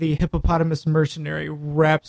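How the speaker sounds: lightly hammed-up game master narration; laid-on-thick GM narration. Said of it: "I will really lay it on thick".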